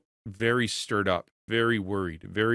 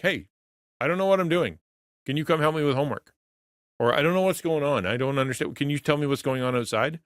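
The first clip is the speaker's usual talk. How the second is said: put-on higher, eager little kid asking dad; child asking for help; 5 semitones higher than usual. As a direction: voice a small child running up to dad. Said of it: "like my kid running up to me like".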